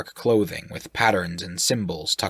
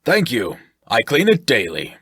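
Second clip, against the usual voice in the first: booming, higher and louder; loud booming reply; 4 semitones higher, 6 dB louder than usual. Acted. Shirk answers from the ship, booming loud. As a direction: boom it out from the ship deck. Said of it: "Shirk replied loudly".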